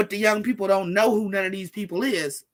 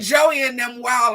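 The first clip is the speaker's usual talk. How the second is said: imitating homegirl; 3 semitones higher, 7 dB louder, slower than usual. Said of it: "She said".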